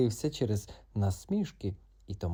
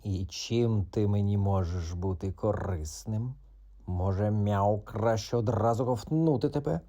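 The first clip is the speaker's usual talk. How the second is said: threatening cat. Acted. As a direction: toy with the prey. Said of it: "продовжував погрожувати Мохіто".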